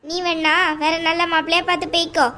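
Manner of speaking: a domineering aunt, coldly dismissive; mother-in-law telling the bride to leave the house, scornful. Acted. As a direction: lay down the law to the unwanted daughter-in-law.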